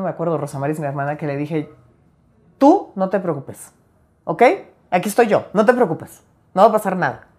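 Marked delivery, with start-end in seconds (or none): 2.6-7.3 calm her like a father would; taking on dad's role. Retold or imitated. Reassuring her sister in bed after dad died, mild fatherly tone. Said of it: "tomé el papel de papá".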